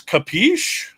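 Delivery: lightly put-on Italian mobster accent, high-pitched. Host quoting the comic's mobster, lightly put-on Italian accent. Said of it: "you gotta have that accent too".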